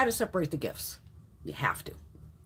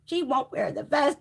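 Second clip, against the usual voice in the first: slow, mocking complaint; mocking quote; 3 semitones higher than usual. Retelling the boss's write-up over a vest, lightly mocking. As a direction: mimic a whiny tattletale lightly.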